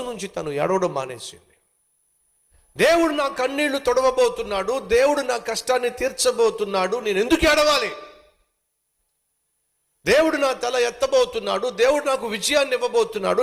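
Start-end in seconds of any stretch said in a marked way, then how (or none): 2.8-7.0 confident hope. Acted. Hannah's new faith voiced. 7.0-7.9 raised, stress on ఎందుకు; defiant question. Acted. Hannah's new faith voiced. 10.1-13.4 confident hope. Acted. Hannah's new faith voiced.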